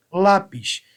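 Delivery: "Lápis" with a firm LÁ and a weak, falling pis; stress on penultimate syllable. Shown as a demonstration. Teacher showing the tonic penultimate syllable, stressed LÁ in "Lápis". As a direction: lean on the LÁ of "Lápis". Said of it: "tenho como sílaba tônica a penúltima".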